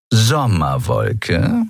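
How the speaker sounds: very slow, drawn-out purr. Acted. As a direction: savour the name like a cat. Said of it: "schnurrte sie".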